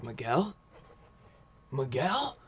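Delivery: mild mock yell, rising at the end; retold screaming. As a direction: call the name out as a half-hearted scream. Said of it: "Like, screaming".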